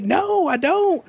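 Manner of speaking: slow, high mock reply. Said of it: "I was like".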